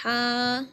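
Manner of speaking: हा said thin and light, held long; thin light sound. Shown as a demonstration. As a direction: draw out a light हा. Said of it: "इस तरह". (हा को बारीक और लंबा पढ़ें)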